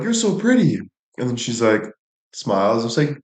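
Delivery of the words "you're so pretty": high, sweet cooing voice; cooing at a kid. Retold or imitated. Telling a little girl she's pretty, high cooing. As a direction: coo it up high like praising a toddler. Quoting himself to a cute kid.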